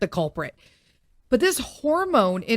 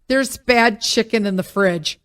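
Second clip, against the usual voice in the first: calling out; 6 dB louder than usual. Retold or imitated. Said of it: "calling out something".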